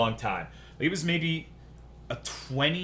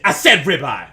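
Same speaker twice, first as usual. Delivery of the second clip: sharp, much louder snap at the customer; snapping waitress; 2 semitones higher, 11 dB louder than usual. Retold or imitated. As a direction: bark the correction back. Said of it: "snap at me".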